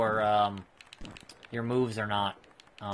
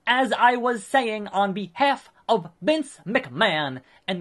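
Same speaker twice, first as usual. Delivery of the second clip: lightly voiced smug wrestling manager, pitched higher; a hint of a slick, self-satisfied manager; Paul Heyman; 5 semitones higher, 3 dB louder than usual. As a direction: play a pompous promoter handing out praise. Voices Paul Heyman's game dialogue.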